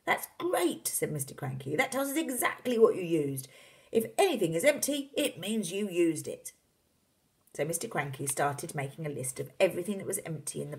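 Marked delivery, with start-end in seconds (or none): 0.1-0.9 very high exclamation; delighted father. Acted. 1.8-6.5 high, emphatic, triumphant voice; excited father. Acted. Excited father character reasons aloud.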